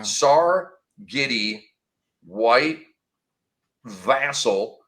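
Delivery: slow names, each with its own pause; baseball announcer. Shown as a demonstration. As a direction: call out each name like a ballpark announcer. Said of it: "I say it like a baseball announcer".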